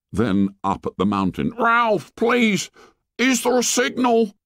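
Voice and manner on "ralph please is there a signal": put-on high, desperate begging boy; pleading. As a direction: beg him for an answer. Piggy begging for an answer.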